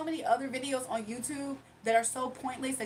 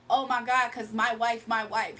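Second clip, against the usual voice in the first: louder, mildly mocking imitation of a boaster; mock bragging; 5 dB louder than usual. Streamer imitates a man boasting of his wife, mildly mocking. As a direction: imitate someone going on about his wife.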